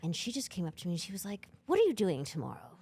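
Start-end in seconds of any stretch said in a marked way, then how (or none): 1.6-2.7 accidental British accent, imitating an older French woman; a failed French accent that comes out British; botched French accent. Imitating an older French woman approaching the singer, botched British-sounding accent. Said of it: "Although it was a British accent".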